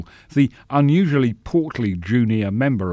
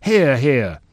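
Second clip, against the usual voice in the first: rumbling approval; 4 semitones higher, 5 dB louder than usual. Acted. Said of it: "they rumbled".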